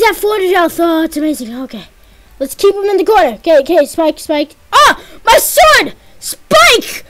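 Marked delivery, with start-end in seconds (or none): 4.7-7.0 high, loud mock-betrayed wail; wounded outcry. Real, not acted. Gamer wails at Spike for breaking his sword, high and loud.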